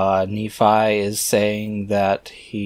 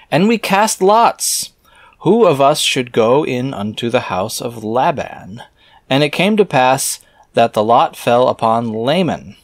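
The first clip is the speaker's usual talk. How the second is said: scripture reading; 3 semitones higher, 3 dB louder than usual. Acted. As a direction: intone the archaic words like a preacher. Reads scripture aloud, slow start.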